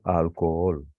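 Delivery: "alcohol" with both o's sounded separately; split hiatus. Shown as a demonstration. Teacher showing vowels we must separate, split hiatus. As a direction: hold the two o's in "alcohol" apart. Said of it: "las tenemos que separar".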